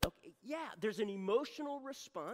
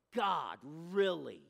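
grumbling; 9 dB louder, much slower than usual. Retold or imitated. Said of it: "boy, did you grumble".

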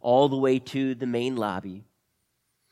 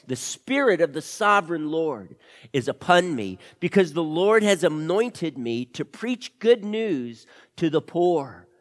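scripture reading; 5 dB louder than usual. Acted. Lizzie reads scripture aloud.

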